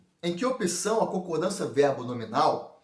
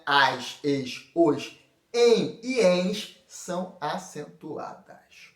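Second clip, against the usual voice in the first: slow dictation; 2 semitones lower, much slower than usual. Shown as a demonstration. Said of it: "listing accent rules".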